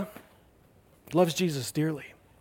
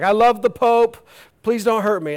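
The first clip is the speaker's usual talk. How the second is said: high, hasty appeasement; hammed-up nervous flattery; mock pleading; 4 semitones higher, 3 dB louder than usual. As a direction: plead for mercy in playful exaggeration. Acts scientist placating the Pope.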